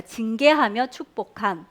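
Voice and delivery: put-on slow, deliberate phrase for children to repeat; teacher giving the line to echo; slow model line. Shown as a demonstration. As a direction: spell out 징계하며 축복함 slowly, word by word. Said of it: "따라할게요".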